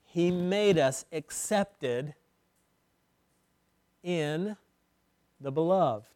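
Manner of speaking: slow, deliberate reading; slow solemn scripture. Acted. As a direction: read the verse with weight.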